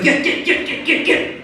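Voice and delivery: high, hissed, unvoiced shooing; panicked shooing. To the woman in his bed, a frantic whispered get get get. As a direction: shoo her out in a frantic hiss. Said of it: "I was like".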